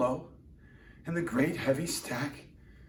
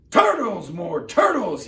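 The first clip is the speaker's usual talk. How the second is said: high, loud braying call; bellowed; 6 semitones higher, 9 dB louder than usual. Acted. The king bellowing for more turtles. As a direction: bray the summons across the pond. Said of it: "he bellowed and brayed".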